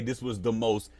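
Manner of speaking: slow, hammed-up gushing; mock over-the-top rave; oversold praise. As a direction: oversell it like a rehearsed review. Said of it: "you gotta say it like that".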